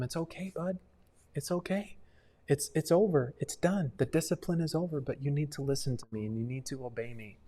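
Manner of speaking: softly comforting a child, retold; tender, hushed parental voice; soothing parent. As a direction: reassure a crying little one, gently. Parent soothing a child after spanking.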